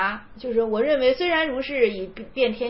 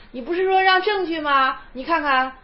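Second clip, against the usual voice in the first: mock challenge; 3 semitones higher than usual. Voices monk's challenge in quoted story.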